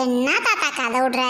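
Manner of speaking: laughing through a scoff at grandpa; teasing laugh. Acted. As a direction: chuckle as you call his bluff. Woman teases grandfather's claim. (சிரிப்புடன் கேலி)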